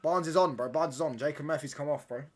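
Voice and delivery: loud, high excited call; high, loud burst of excitement. Real, not acted. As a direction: blurt out the football news. Excited football news to chat.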